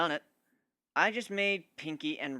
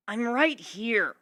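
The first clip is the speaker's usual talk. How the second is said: Dash voice; 8 semitones higher, 5 dB louder, much slower than usual. Acted. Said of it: "Dash said".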